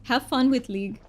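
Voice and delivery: a thick, hammed-up Romanian accent, played for fun; mock Romanian accent. Streamer chats with viewers in a mock thick Romanian accent. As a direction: streamer puts on a joke Romanian accent for chat. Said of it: "But I will be talking in this".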